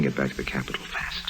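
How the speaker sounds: whispered fast order; urgent whisper. Acted. Lime sending Nora away before Cato arrives, whispered. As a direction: whisper it so the approaching gangster won't hear.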